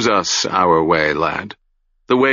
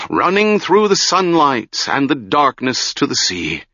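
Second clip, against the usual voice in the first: changed voice. Acted. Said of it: "went on in a changed voice".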